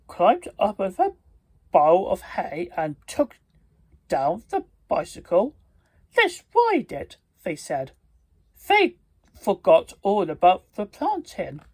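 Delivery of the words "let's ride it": high, excited cry; eager kids. Acted. Nephews eager to ride the bicycle, high and excited.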